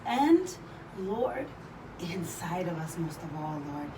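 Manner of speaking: praying aloud during a wall sit. Acted. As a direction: pray while holding a wall sit. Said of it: "let us pray".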